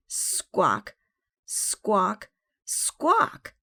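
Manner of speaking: loud squawks climbing to a high screech; screeching parrot. A narrator's reading. Parrot flying around and around, screeching.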